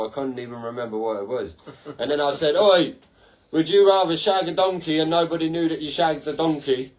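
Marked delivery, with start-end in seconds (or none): 2.6-6.9 loud, cheeky call across to the staff. Retold or imitated. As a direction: shout it over to the drive-through window. Shouting a question at drive-through staff.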